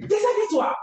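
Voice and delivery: put-on loud high command, barked at a young girl; authoritative order. Women ordering the frightened girl to undress, loud commanding bark. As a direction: order her to strip with full authority. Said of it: "c'est avec autorité".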